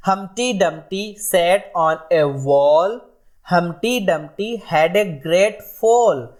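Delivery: very slow, sing-song nursery rhyme recital; slow rhyme reading. Shown as a demonstration. Teacher reading Baa Baa Black Sheep to students, slow sing-song. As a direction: chant it out line by line for children.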